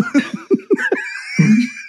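high laughing outburst. Real, not acted. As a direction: burst of shouting laughter. Laughs at own joke.

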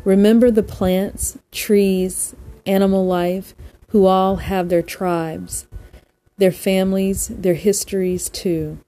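measured recital with pauses between lines; poem reading. Real, not acted. Host reads a poem to listeners to unwind, measured poem reading. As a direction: read verse deliberately, leaning on each opening word.

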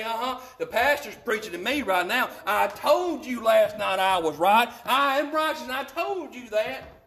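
lightly mimicked told-you-so wife; mock vindicated spouse, only lightly voiced; imitating smug wives. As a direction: tease as a wife nudging her husband, lifting toward the end. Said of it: "before any ladies raise your hand".

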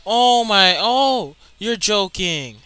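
loud, high gasp of disbelief, slowing down at the end; shocked disbelief. Real, not acted. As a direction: react to a shock in the game, hardly believing it.

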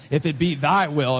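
lightly pompous King James English; mock official. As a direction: make "thy will" sound grandly official. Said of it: "It makes it more official".

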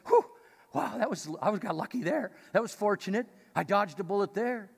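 relieved. Retold or imitated. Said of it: "it was probably viewed as".

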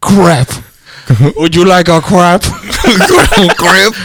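mock French accent. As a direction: play up a silly French accent. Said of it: "my French is pretty good".

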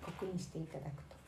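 prim ladylike ojousama speech; haughty rich girl japanese. Acted. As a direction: put on an elegant rich girl voice. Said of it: "なんかちょっと変わりましたね".

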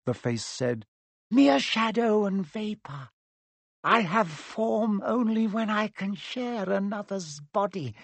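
high, slow, menacing voice; snake-like dark lord. Acted. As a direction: coax and threaten like a serpent. The face speaks.

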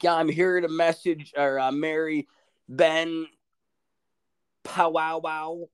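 put-on high, slow, wavering old minister voice; ninety-four-year-old minister. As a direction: drag out the wrong name like a confused old man. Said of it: "he's like".

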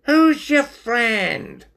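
high, loud, slow squeaky voice; high-pitched character question; curious stoat. A narrator's reading. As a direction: ask nosily as a little stoat.

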